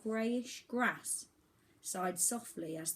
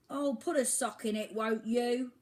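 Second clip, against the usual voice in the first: higher and louder grumpy bird complaint; grumbling creaky voice; 5 semitones higher, 6 dB louder than usual. Acted. Woken albatross grumbling at shouting boy, creaky voice. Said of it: "grumbled a creaky voice".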